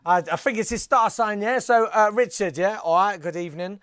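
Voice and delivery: lightly voiced chatty fairground psychic; casual, colloquial puppet fortune-teller; matey psychic chicken. Psychic Chicken giving Richard a reading, lightly put-on matey voice.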